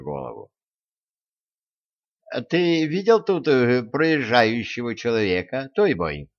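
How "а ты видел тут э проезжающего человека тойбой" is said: выше, тонким голоском; пискнуть робко и тонко; тонким голосом. A narrator's reading. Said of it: "тонким голосом спросил Любовод". (Любовод тонким голосом спрашивает чудовище)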